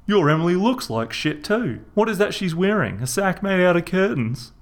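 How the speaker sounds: Reg's Aussie voice. A narrator's reading. Reg berating his brother about the kids. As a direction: scold him like a fed-up brother.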